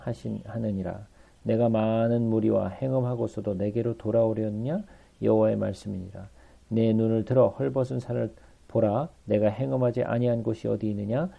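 steady, measured Bible reading; scripture reading. Acted. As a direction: read the verses out to the congregation. Reads scripture aloud. (성경 봉독하듯 또박또박)

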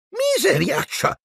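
high, drawn-out cry of amazement; stunned, high-pitched outburst; astonished exclamation. A narrator's reading. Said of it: "esclamò l'altro gemello".

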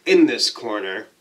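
slow ringside announcer build-up; wrestling announcer. Pretend. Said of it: "I'm saying it like a wrestling announcer".

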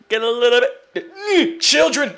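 slow growly villain voice; gruff character voice. Acted. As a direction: growl like a grumpy brute. Put-on voice about children.

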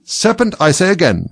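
high insistent bird; a hint of the pigeon. A narrator's reading. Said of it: "but in a more subdued tone".

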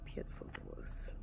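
hushed whisper in the dark. Real, not acted. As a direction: whisper so nobody hears. Quiet narration in dark chapel.

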